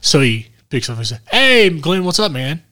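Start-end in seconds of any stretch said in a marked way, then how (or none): 1.3-2.6 prank caller voice. Acted. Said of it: "I wanna prank him".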